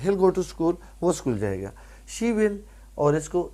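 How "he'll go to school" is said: "He'll" as one word opening the sentence; contracted pronunciation. Shown as a demonstration. Teacher giving an example after the short form, contracted pronunciation. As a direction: merge he and will into "He'll". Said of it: "اس کو he'll بولتے ہیں".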